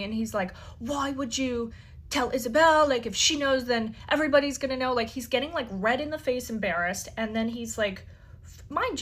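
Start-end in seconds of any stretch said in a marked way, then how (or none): 0.8-4.9 mock-angry, a bit louder and rushed at the end; retold angry outburst. Elon scolding her for telling Isabel, imitated angry rush. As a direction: imitate a boyfriend snapping in a hurried panic. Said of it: "He gets so angry at me".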